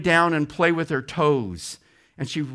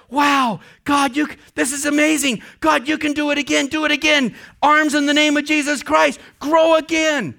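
much higher, louder, faster amazed pleading; ecstatic prayer; 10 semitones higher, 5 dB louder than usual. Retold or imitated. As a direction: marvel and demand more from God. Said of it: "and she says".

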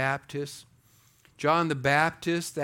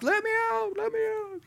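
very high squeaky plea from the ram; voice of the trapped ram. Acted. Preacher voicing the ram in the thicket, high pleading squeak. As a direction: squeal it like a ram stuck in thorns.

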